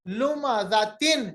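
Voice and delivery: लुमाजातिन drawn out slowly, ending on तिन; slow recitation. Shown as a demonstration. Teacher slowly saying the second example word. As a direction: say लुमाजातिन slowly with full tanween. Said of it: "तिन है".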